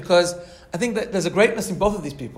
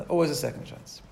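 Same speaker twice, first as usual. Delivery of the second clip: quiet, lower repeat of "Always"; soft echo; 3 semitones lower, 5 dB quieter than usual. Shown as a demonstration. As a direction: let "Always" fall away softly. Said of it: "there's always a second chance".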